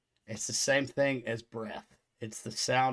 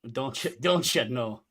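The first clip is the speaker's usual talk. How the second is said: put-on Minnesotan accent. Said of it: "you drag the O's".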